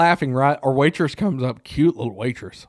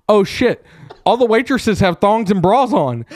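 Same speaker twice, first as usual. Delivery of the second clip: raised, startled exclamation; acting out a stunned discovery; retold shock; 6 semitones higher, 3 dB louder than usual. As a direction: blurt it higher, as if just noticing. Acted shocked reaction in story.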